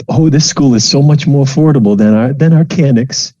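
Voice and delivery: a hint of a mom covering her tears; brightly changing subject. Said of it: "She's like".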